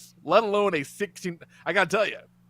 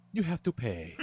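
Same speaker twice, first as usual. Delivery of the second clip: quiet, under his breath; 4 semitones lower, 7 dB quieter than usual. Retold or imitated. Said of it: "Very quietly, under his breath".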